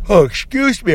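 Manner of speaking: spoken through a real yawn. Real, not acted. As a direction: let a yawn stretch the words. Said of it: "I'm yawning on my podcast".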